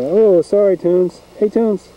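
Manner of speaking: high, sorry voice to the cat; apologetic pet talk. Real, not acted. Owner apologises to the cat he kicked, high-pitched apology.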